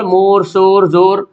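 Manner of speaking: मोर, शोर, जोर with round "o"; rounded "o" vowel. Shown as a demonstration. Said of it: "खींच कर ना पढ़ा जाए".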